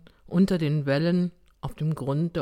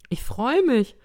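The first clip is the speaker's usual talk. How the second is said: high, louder cheer of delight; gleeful exclamation, pitched up; jubilant; 7 semitones higher, 5 dB louder than usual. A narrator's reading. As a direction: cheer it like a delighted old woman. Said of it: "jubelte sie".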